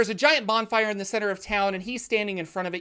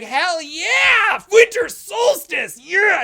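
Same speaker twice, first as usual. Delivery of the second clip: high, loud toast with the glass raised; festive cheer; 11 semitones higher, 10 dB louder, much slower than usual. Pretend. Villager toasting the crowd at the festival, loud cheer. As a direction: whoop it up for the solstice.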